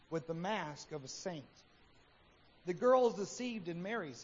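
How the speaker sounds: measured storytelling read; story narration. Acted. Preacher reads the Happy Hypocrite story, measured narration.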